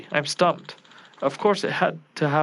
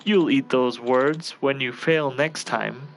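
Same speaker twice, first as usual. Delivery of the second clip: menacing; much slower than usual. Acted. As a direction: promise revenge, coldly. Villain threatens slowly.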